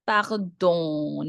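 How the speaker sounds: Pardon with a long nasal "don"; nasal ending. Shown as a demonstration. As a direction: draw out the nasal vowel at the end of Pardon. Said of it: "Nasal sound".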